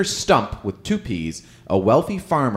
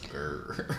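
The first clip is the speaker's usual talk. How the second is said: werewolf growl; 8 semitones lower, 14 dB quieter than usual. Pretend. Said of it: "what sound does a werewolf make".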